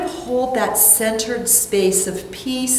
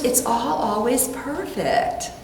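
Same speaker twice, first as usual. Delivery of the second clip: calm reassurance; 5 dB quieter, slower than usual. Retold or imitated. Friend calmly reassuring her.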